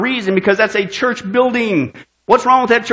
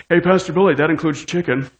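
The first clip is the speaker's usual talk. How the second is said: snickering churchgoer; 5 semitones lower, 3 dB quieter than usual. Retold or imitated. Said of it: "I know you're snickering".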